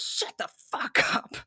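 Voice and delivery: whispered swear, drawn out. Retold or imitated. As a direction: hiss it low and slow. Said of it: "he says".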